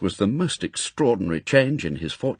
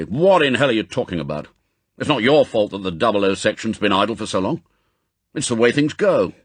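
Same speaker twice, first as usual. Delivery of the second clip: gruff irritated bark, louder; angry; 2 semitones higher, 5 dB louder than usual. Acted. Chief scolds agent offering resignation, angry bark. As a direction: brush off his nonsense with impatience. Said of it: "M said angrily".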